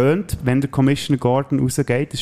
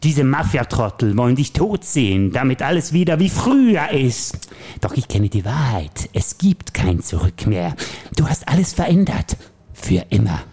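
Joker voice; slower than usual. Acted. Plays the Joker in the scene.

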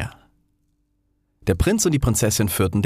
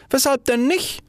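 even higher, eager repeat; little fire ball, repeated. Acted. Little fire ball repeats its question, eager and high. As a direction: ask it again, more eagerly. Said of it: "rief eine kleine Feuerkugel aus".

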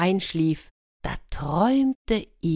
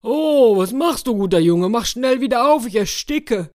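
much higher and louder, frantic cries; panicked wolf; 6 semitones higher, 6 dB louder than usual. Acted. Wolf trapped in the coffin begs to be let out, panicked. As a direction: yell in panic from inside the box.

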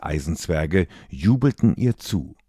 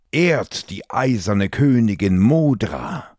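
loud herald's call; 4 semitones higher, 3 dB louder than usual. Acted. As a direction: announce it loudly to the hall. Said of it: "rief plötzlich ein Eisenzwerg".

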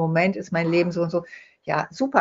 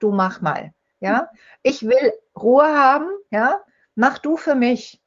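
mock demanding patient; 4 semitones higher than usual. Patient dumping teeth on dentist.

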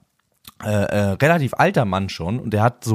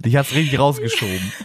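laughing; 2 semitones higher than usual. Real, not acted. Teasing with laugh.

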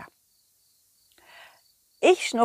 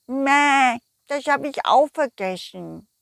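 forgetful sheep voice; 3 semitones higher than usual. Acted.

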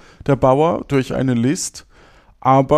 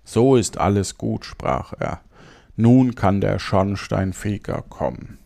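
measured, clearly articulated storytelling; fairy-tale narration; 4 semitones lower than usual. Acted. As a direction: read the tale aloud phrase by phrase. Reads a fairy tale aloud. (ruhig ein Märchen vorlesen)

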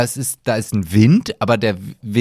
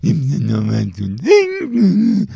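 mocking echo; 6 semitones higher, 3 dB louder, much slower than usual. Mocks friend's question.

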